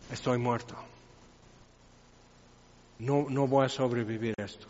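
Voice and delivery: aterrado. Acted. Isaías ante Dios, aterrado.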